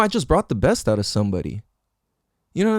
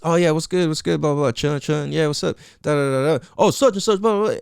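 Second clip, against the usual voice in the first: mock small talk; 3 semitones higher than usual. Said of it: "this is the bullshit".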